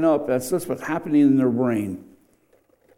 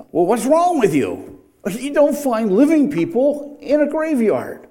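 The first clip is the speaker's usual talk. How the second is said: angel's gentle rebuke, pitched higher; kind rebuke; 8 semitones higher than usual. Retold or imitated. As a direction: scold them kindly but firmly, voice raised high. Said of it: "probably said kindly, but it's still a rebuke".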